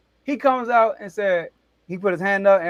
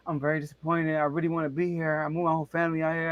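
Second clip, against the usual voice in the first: imitating a hurt voice; 6 semitones lower, 9 dB quieter, faster than usual. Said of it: "his voice sound cracky".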